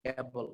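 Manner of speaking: "অ্যাবল" opening on a short "a" as in apple; local pronunciation. Shown as a demonstration. Teacher spells it out for learners, local pronunciation of "অ্যাবল". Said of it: "আমরা বলতেছি able".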